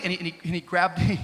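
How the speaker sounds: ordinary delivery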